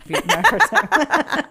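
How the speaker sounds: stretched slow and high; slow drawn-out. Real, not acted. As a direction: drag it out for comedy. Drawn-out joking correction.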